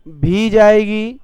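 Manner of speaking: भी जाएगी slow and stressed; emphatic example. Shown as a demonstration. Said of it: "उदाहरण लिख लीजिए". ("भी जाएगी" पर धीमा ज़ोर)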